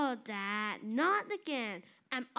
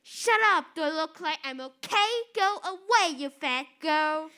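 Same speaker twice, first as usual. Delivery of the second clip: angry shout; 5 dB louder than usual. Acted. Angry outburst at sister.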